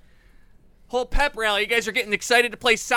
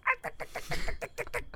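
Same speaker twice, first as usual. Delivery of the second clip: penguin clicks; 11 semitones higher, 11 dB quieter, faster than usual. Retold or imitated. Imitating a penguin noise.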